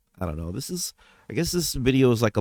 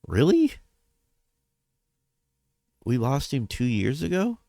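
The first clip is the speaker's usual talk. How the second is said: shocked disbelief; 5 semitones higher than usual. Retold or imitated. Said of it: "I was like".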